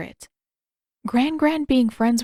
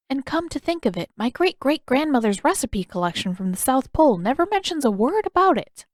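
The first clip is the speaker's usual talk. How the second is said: put-on a gently puzzled old woman thinking aloud; Yugoda, curious and thoughtful; 3 semitones higher than usual. Yugoda explains the stew.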